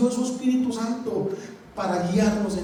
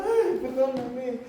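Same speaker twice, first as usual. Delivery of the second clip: mock crying plea; 4 dB quieter, much slower than usual. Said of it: "se va a bajar llorando".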